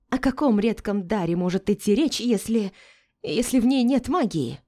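high, loud agitated protest; agitated tirade. A narrator's reading. Melinda ranting in panic about the heir, high and loud. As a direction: rant it in rising panic.

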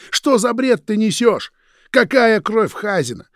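high, loud furious yell. A narrator's reading. Roman yelling at Vitya's excuse, loud yell. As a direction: keep roaring. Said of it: "заорал Роман".

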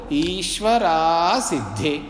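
slow ईश्वरा सिद्धे, each syllable full; as written. Shown as a demonstration. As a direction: model ईश्वरा सिद्धे clearly and slowly. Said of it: "तो बहुत सरल है बोलना".

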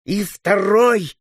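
high, drawn-out triumphant cry; wildly joyful yell. A narrator's reading. Little Boer after felling a rider, joyful yell. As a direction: crow over the second hit. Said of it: "с дикой радостью завопил".

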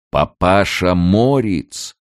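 slow, loud, high call. A narrator's reading. Gatekeeper calls again to the hiding emigrant, loud slow call. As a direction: draw the name out like a call across distance. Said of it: "снова крикнул голос".

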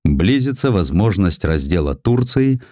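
plain reading voice

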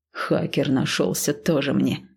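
low, slow scoffing dad; scoffing snort. Acted. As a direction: scoff at the boy, slowly. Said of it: "фыркнул отец".

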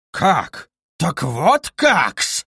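slow, stunned exclamation; stunned cry. A narrator's reading. Luzhin reels at Dunya's refusal, slow and stunned. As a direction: drag it out in disbelief. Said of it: "вскричал Лужин".

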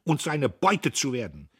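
loud, high, slowed warning cry; the old man hurls his final warning; last cry of conscience. A narrator's reading. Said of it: "zu dem letzten Schrei seines Gewissens".

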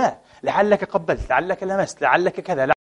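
soft, gently probing quote; gentle questioning. Retold or imitated. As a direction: ease him toward a way out, softly.

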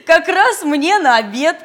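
greedy high pig voice; grunting pig. Acted. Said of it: "хрюкнула она".

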